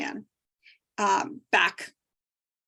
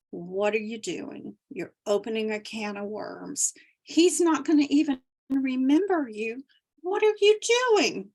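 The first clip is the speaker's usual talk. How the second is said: anxious monkey mind; 3 dB louder than usual. Retold or imitated. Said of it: "this monkey mind took control, and it was going".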